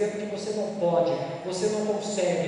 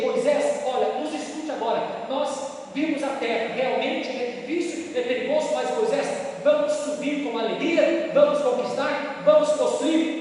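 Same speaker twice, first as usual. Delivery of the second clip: acted plea; 2 semitones higher, 4 dB louder than usual. Caleb pleads with Moses.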